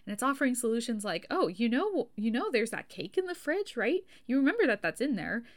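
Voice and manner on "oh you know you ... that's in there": excited midbrain. Retold or imitated. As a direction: pitch the cake and the pizza like a cheerful salesman. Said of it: "it's getting really excited".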